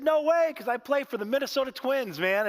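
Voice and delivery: the new twin dad shouting his delight; excited dad. Retold or imitated. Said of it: "he's so excited and pumped up".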